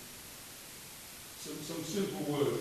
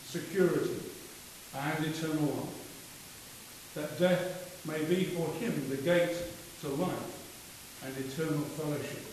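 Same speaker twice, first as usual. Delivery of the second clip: solemn prayer. Acted. Committal prayer at funeral.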